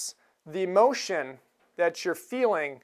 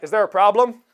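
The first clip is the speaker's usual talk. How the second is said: authoritative marshal; 7 dB louder than usual. Retold or imitated. US Marshal steps in.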